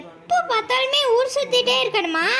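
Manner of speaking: high-pitched mother-in-law's complaint; nagging scold. Acted. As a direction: scold the daughter-in-law for roaming. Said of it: "இப்படி கத்திட்டு தெரியுது". (உயர்ந்த குரலில் மாமியார் திட்டு)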